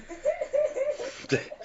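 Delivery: a sudden high burst of laughter; real laugh breaking out at his own joke. Real, not acted. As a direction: crack up at the punchline.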